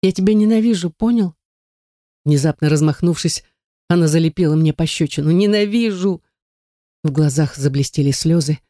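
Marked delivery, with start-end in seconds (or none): 0.0-1.4 high, raised cry of hate; furious outburst. A narrator's reading. The heroine hurls her hatred at Den, a high anguished cry. 5.3-6.2 a high, anguished shout; hateful cry. A narrator's reading. Slapping Den, she cries out her hate, high and anguished.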